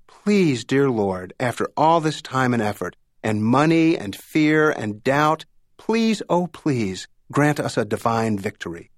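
understated plea to God; pleading prayer. A narrator's reading. Law firm praying together for victory, mildly pleading. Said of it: "the common plea was for victory".

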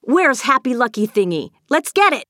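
high, loud playful urging; rally the dog for a game, shouting; excited shout. A narrator's reading. Avery shouts to the dog before racing upstairs, excited shout. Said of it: "Avery shouted".

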